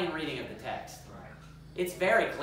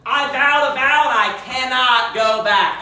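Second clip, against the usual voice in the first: much louder, higher and slow; anguished father's cry; 6 semitones higher, 11 dB louder, slower than usual. Acted. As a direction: cry out the vow he cannot undo. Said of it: "He says, when she comes".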